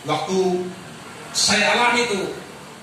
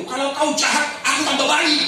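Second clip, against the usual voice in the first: firm proclaimed answer ending in a shout; declared blessing; 6 semitones higher than usual. Shown as a demonstration. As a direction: proclaim the right way boldly. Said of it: "Sekarang jangan bilang begitu".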